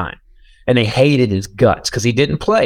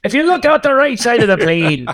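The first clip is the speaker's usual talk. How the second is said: high, hammed-up pirate pilot voice; mock pirate captain announcing to passengers; jokey pirate pilot on the intercom; 9 semitones higher than usual. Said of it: "pirates with eye patches to also fly".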